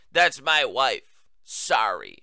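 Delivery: slow, lightly voiced old senator; a hint of a fumbling elderly man apologizing; Charles E. Schumer. Host mimicking the senator excusing the phone call, slow. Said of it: "Yeah, in that voice".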